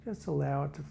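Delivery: calm body-scan narration, phrases spaced far apart; guided meditation. Real, not acted. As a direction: guide listeners gently through a body scan, unhurried.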